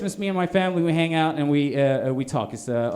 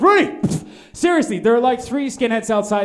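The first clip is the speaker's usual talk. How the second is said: much higher, louder urgent call; mock panicked shout; 5 semitones higher, 4 dB louder than usual. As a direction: yell the name like a panicked superintendent. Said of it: "be like".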